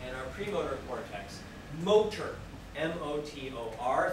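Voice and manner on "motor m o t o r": "Motor" hit loud, then spelled M O T O R letter by letter; spelling out motor. Shown as a demonstration. Teacher spells out "Motor" for students taking notes. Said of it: "Think about motor".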